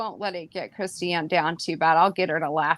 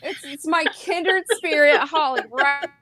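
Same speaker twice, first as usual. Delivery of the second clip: kind gentle laugh; 10 semitones higher than usual. Real, not acted. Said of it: "Sorry, I'm not laughing at you".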